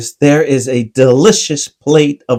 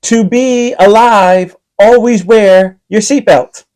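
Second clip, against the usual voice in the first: flight attendant voice; 7 semitones higher than usual. Acted. Flight attendant safety announcement.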